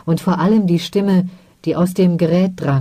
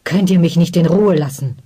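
angry shout. Acted. Ostwan turning on his mother, mild shout. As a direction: snap at her, lightly voiced. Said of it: "schrie er mit zornrotem Gesicht".

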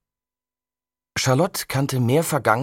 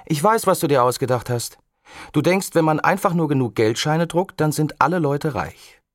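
put-on higher, louder girl's shout over the wind; mild mock shout from a girl; 6 semitones higher, 4 dB louder than usual. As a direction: yell it while swinging high. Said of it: "schrie Charlotte".

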